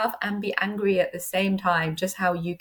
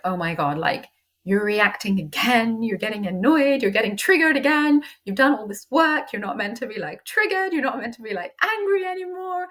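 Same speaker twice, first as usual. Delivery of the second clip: exasperated self-scolding. Retold or imitated. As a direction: scold yourself for reacting, building up. Judging herself for getting triggered.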